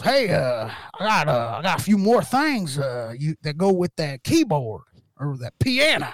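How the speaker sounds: lightly imitated Southern twang; mild put-on Southern accent. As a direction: say it as the Southern neighbor, piano as "pianna". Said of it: "That's why he says piano".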